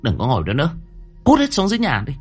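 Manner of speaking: cold, then bark them away; cold order. A narrator's reading. Landlady coldly ordering everyone downstairs, then barking. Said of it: "nhìn mọi người lạnh lùng".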